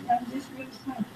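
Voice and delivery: very soft acted apology; soft and nice. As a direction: drop right down into a meek apology. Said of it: "you talking soft and nice".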